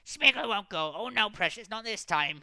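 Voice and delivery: high, loud creature refusal; defiant Gollum hiss. A narrator's reading. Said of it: "hissed Gollum".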